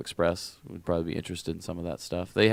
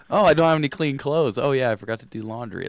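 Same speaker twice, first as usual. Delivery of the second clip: scatterbrained self-talk; 7 semitones higher, 7 dB louder than usual. Retold or imitated. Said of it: "It's like".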